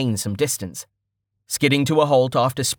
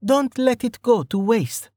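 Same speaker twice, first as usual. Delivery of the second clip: higher, tense character voice; urgent self-urging; 11 semitones higher than usual. A narrator's reading. Archer psyching himself up before stepping out, urgent. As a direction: pitch it up, urging yourself on.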